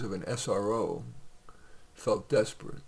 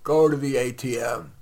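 suppressed anger; 3 dB louder than usual. Acted. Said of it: "suppressing anger".

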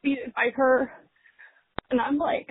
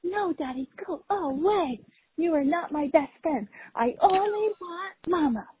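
lightly higher toddler voice, a mild mock yell; imitating her toddler; 4 semitones higher than usual. Mom imitating her toddler yelling at dad, lightly higher. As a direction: play the three-year-old pushing dad away, half-hearted. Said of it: "she yells at her dad".

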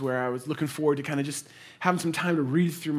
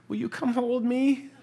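lightly voiced little girl, pitched up; a hint of a frightened daughter; small girl asking; 9 semitones higher than usual. Daughter asking her dad to hold her, lightly voiced child. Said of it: "she goes".

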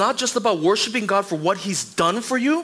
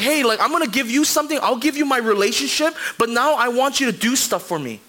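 higher, pushy voice of someone striking a deal; mock bargaining voice; 4 semitones higher than usual. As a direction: sell it like a cheap trade offer. Preacher voicing people using God.

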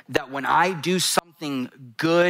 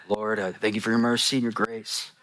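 mock religious prayer; 2 semitones lower than usual. Preacher mocks religious stuff said to God, put-on pious prayer. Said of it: "Not with your religious stuff".

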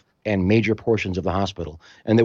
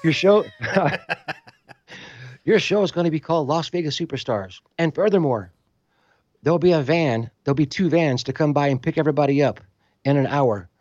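Greek official; 6 semitones higher than usual. Retold or imitated. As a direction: announce it like a stern foreign official. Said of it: "they go".

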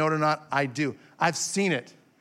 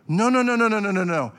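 emphatic no; 2 semitones higher, 3 dB louder, faster than usual. Real, not acted. Preacher rejecting exclusion.

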